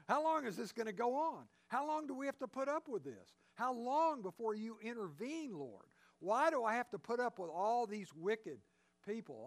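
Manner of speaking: a touch of anguish, pressing each "How long"; anguished crying out. Retold or imitated. Prophet crying out to God, mildly anguished. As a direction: plead with God, half-acted. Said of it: "he cries out those same questions".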